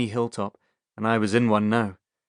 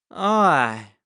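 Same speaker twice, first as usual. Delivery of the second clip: a touch curt, short and blunt; 4 semitones higher, 4 dB louder than usual. Acted. Drunk Harold curtly answering the vet at the door. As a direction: brush him off briefly. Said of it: "nodded curtly".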